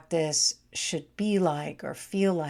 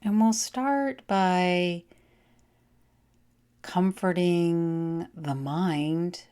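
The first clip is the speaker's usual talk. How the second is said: guided meditation. Acted. Guides a yoga nidra relaxation.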